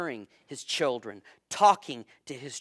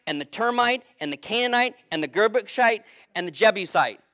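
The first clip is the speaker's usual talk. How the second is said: emphatic list; 6 semitones higher, 6 dB louder than usual. Acted. Rapid comic list of tribes.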